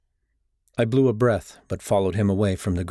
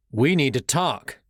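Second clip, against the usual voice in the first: demanding; 4 semitones higher, slower than usual. Acted. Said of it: "I demanded".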